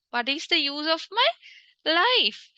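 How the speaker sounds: mock crying lament. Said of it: "asking so many questions and crying".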